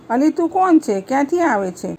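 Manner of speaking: a neighbor caught off guard by a stranger; mildly astonished village woman asking who she is; stunned neighbor. Acted. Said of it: "પાળી કન્યા જોઈ આભી જ બની ગઈ".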